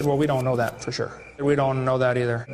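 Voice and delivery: low imitation of a professor's stock answers; mock professor. Quoting the professor's answers back at him, mock low voice. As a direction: parrot the professor back, voice dropped. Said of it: "But you said".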